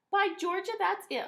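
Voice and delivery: high, loud excited holler. A narrator's reading. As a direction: shout it out with delight. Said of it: "hollered Missus McBloom".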